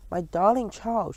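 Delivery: slow, tender endearment; said softly. A narrator's reading. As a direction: linger fondly, lifting the pitch. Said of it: "she said softly".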